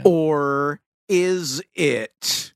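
slow, ominous Sling Blade drawl. Pretend. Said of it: "Sling Blade Goes to Church voice".

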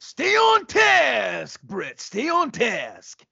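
slow, high, hammed-up scolding; mock stern order. Randy reining Bret in with a slow mock shout. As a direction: bark each word slowly.

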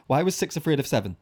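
"Why was six afraid of seven" said clearly; clearer retry. Shown as a demonstration. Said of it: "Okay, I'm trying again".

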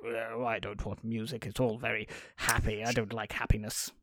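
low, soft, sullen grumble; mock grumpy. Author sulks at the cheerful song, mock grumpy and low. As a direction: play a glum killjoy author.

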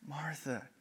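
tender and caring; soft compassionate repetition. Acted. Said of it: "gently coming alongside her".

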